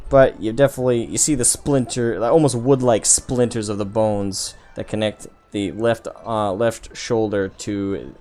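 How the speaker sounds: animated, emphatic blow-by-blow; game master's combat narration. Acted. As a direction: build to a loud crack of the hit, then settle into detail.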